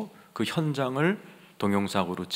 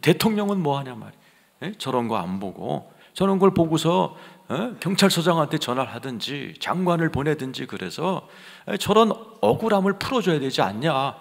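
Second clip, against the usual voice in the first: mildly raised, indignant protest; retold indignation; 5 semitones higher than usual. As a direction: retell an angry inner outburst. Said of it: "내 안에서 막 분노가". (분노를 되살린 항변)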